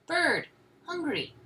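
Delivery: put-on high, loud toddler exclamations; high little bursts, each word on its own; baby calling out. A narrator's reading. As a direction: call out like a demanding baby. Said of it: "he called out".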